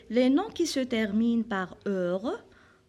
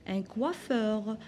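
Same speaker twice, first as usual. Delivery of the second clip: slow model word; 4 dB quieter, slower than usual. Shown as a demonstration. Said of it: "Un autre exemple".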